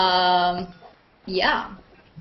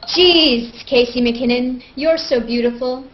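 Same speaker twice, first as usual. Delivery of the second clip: dramatic reading; slower than usual. Acted. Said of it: "another dramatic reading of my Google Plus comments".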